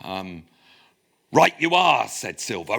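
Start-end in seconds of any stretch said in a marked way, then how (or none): 1.3-2.1 hammed-up Devon pirate burr; cod Devon accent. Lecturer reading Silver's words to the crew, cod Devon accent. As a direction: roll out Silver's lines in mock West Country. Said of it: "read this in a sort of cod Devon accent".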